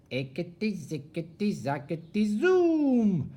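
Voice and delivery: chanted spell rising to a loud high zoom; witch's spell. Acted. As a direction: cast it with a flourish. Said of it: "she muttered a spell".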